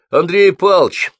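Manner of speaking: громкий высокий оклик; окликни преподавателя вдогонку. A narrator's reading. (громкий оклик)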